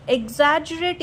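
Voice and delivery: "Exaggerate" with the gg as a soft j; soft-g pronunciation. Shown as a demonstration. Teacher giving the correct pronunciation of the word, "Exaggerate" with a j sound. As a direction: pronounce "Exaggerate" as eg-ZAJ-ur-ate. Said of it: "is a correct pronunciation".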